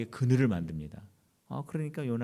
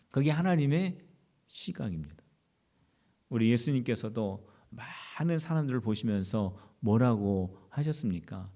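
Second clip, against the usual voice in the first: usual speaking voice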